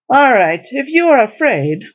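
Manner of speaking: offhand shrug. A narrator's reading. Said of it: "said Thor with a shrug".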